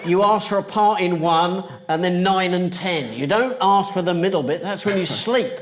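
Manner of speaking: put-on old hands spelling out the obvious; emphatic advice. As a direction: set the naive newcomer straight. Veterans setting naive newcomer straight.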